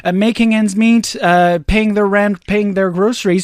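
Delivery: mock pleading, tongue in cheek; sarcastic. Host pretending everyone has money to spare, sarcastic. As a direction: feign cheerful agreement to being taxed. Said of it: "I'm being very sarcastic".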